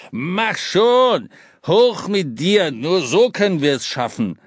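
urgent. Acted. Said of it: "Die Dringlichkeit in der Stimme".

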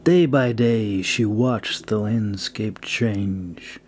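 measured audiobook reading, lingering on descriptions; story narration. Acted. Author reading his fantasy chapter aloud to listeners, steady storytelling narration. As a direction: read it like an audiobook narrator setting the scene.

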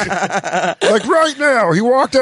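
high, hammed-up disbelief; mock shock. Host mocks the comic learning Pete left, high mock shock. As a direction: play stunned to learn he left.

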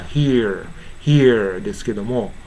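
"hear" ending in a resonant American r. Shown as a demonstration. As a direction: curl the r at the end of "hear". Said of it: "アメリカの標準発音では".

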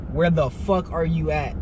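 slow, drawn-out imitation of an aggressive demand; mock-aggressive, each word spaced out; retold aggressive demand. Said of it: "she said it aggressive as shit".

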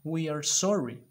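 hammed-up apology; mock sorry. Shown as a demonstration. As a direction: plead like a sorry child. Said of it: "Estamos apenados".

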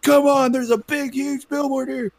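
very high cartoon mouse voice; put-on falsetto, exasperated mock call; Mickey Mouse. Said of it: "that was my Mickey Mouse voice".

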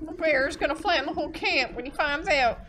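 loud alarmed outburst; dismayed officer. Acted. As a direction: react in horror. Officer reacting to bad news.

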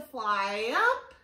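sliding sing-song rise and fall; voice follows the bee. Shown as a demonstration. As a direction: pitch swoops up on "up", down on "down". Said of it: "we have to go up".

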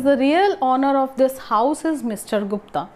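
"real" lifted above the rest; stress on real. Shown as a demonstration. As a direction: lean on the word "real". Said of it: "We are stressing on this word".

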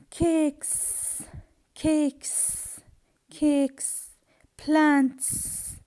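"cakes" and "plants" ending in a voiceless hiss; final S as s. Shown as a demonstration. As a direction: hold the sss on "cakes" and "plants". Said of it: "I pronounce the S".

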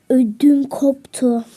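slow scared gasp. Real, not acted. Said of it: "Gerçekten ödüm koptu".

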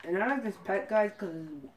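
talking with gum in mouth; words round a wad of gum; chewing gum. Real, not acted. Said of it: "Sorry, I have gum in my mouth".

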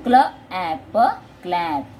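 "क्ल" as one blended sound, pause, "ऐप", then "क्लैप" whole; phonic blending. Shown as a demonstration. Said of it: "सी और एल दोनों का sound साथ में लेना है".

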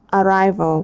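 Arrival with RI stressed; stress on second syllable. Shown as a demonstration. Teacher modelling stress for the class, second syllable stressed. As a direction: lean on the second part of Arrival. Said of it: "Ta nhấn phần hai".

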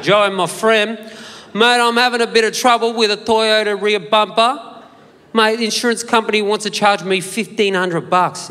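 loud, pally ethnic Aussie bloke; ethnic Australian accent. Retold or imitated. Caller winning over the panel beater in ethnic Australian accent. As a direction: call him mate and sell it in a thick ethnic Australian accent. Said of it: "pulled out my trusty ethnic accent".

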